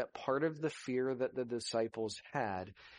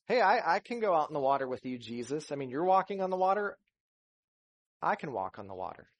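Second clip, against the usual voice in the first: fast, loud and higher, tumbling out; eager Peter; 4 semitones higher, 6 dB louder, faster than usual. Retold or imitated. Preacher voicing Peter begging to join Jesus, fast and loud. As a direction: rush it like an eager fisherman.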